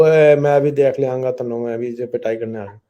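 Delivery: loud mock threat, then rushed; mock angry threat. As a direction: act out a hothead threatening a slap. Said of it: "re ایکٹیو،". (مصنوعی غصے میں دھمکی)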